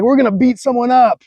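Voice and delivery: a hint of a gruff bank robber giving orders; quoting a heist movie line with a touch of swagger; Ben Affleck. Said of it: "he's like".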